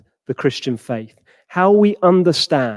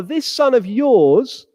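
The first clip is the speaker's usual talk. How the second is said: disgusted; 4 semitones higher, slower than usual. Acted. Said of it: "seems disgusted by his brother".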